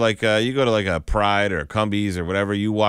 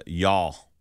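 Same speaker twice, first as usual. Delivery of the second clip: Southern accent. Shown as a demonstration. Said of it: "a Southern accent is".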